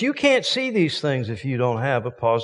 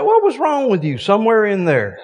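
fired-up preaching; 10 semitones higher, 5 dB louder than usual. Acted. Preaching answer, raised.

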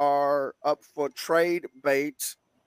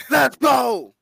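hype shout; 6 semitones higher, 6 dB louder than usual. Acted. Hype call.

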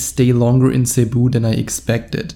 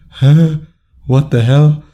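shocked huh; 3 semitones higher, 5 dB louder, slower than usual. Retold or imitated. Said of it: "she looked at me like".

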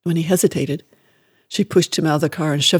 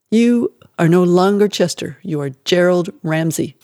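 louder, hard stress on you; mother forcing a new name on her son, stern and louder; stern decree; 5 dB louder than usual. Acted. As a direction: lay down the law like a harsh mother.

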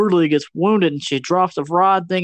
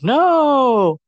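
mock shout; 8 semitones higher, 3 dB louder than usual. Grandma shouts at villain.

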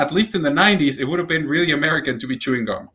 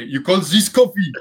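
higher, louder indignant movie voice; movie line on request; 4 semitones higher, 4 dB louder than usual. Pretend. Asked by a friend to redo the coffee line, indignant movie voice. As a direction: put on the outraged customer. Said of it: "Say the coffee line again".

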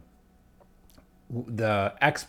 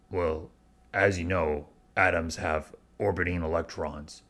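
lightly voiced monotone science explainer; a hint of a dry gruff professor; flat gruff lecturer; 3 semitones lower than usual. Imitating the audiobook expert explaining atoms: mild flat drone. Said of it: "really gruff ... really flat ... really low".

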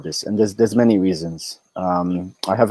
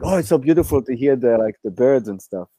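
dreamy admirer voice; 3 semitones higher than usual. Retold or imitated. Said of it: "people start saying, it's like".

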